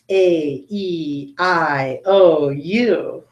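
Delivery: long vowels with mouth stretched straight; 嘴型拉平，逐个发长元音. Shown as a demonstration. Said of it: "show you my mouth like this".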